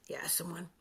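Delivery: a voiceless, satisfied whisper. Retold or imitated. Actress quietly choosing her most irritating line reading, whispered. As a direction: breathe it out as if sharing a secret.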